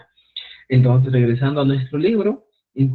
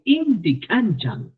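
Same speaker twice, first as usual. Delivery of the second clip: dry, slow; 5 semitones higher, slower than usual. Shown as a demonstration. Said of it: "Una expresión muy seca".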